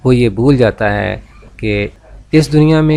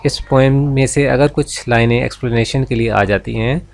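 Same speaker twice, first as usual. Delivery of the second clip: ordinary talk, nothing marked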